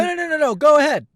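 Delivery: high, loud no no no; high impatient cut-off. Acted. Jung impatiently cuts the fan off, high and loud. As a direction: cut them off, then allow.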